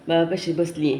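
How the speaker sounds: usual speaking voice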